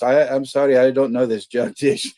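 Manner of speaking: high, loud put-on telemarketer voice; mock polite phone salesman; spam caller voice. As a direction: read it like a scripted call-centre opener. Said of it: "He goes".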